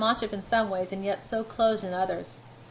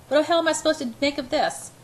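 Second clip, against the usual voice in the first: outraged; 7 semitones higher, 5 dB louder than usual. A narrator's reading. Outraged inner outburst.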